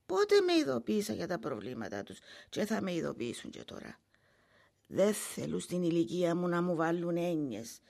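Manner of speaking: ordinary talk, nothing marked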